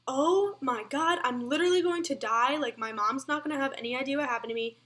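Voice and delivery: imitating herself freaking out while running; retold freak-out. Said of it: "Freaking out".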